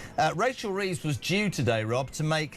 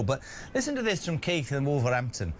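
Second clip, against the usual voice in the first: a quick put-on Black Country accent; Wolverhampton accent. Host introducing a listener's text, lightly in a Wolverhampton accent. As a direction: slip into a light Wolverhampton accent for one line. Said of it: "Don't know why I did that accent".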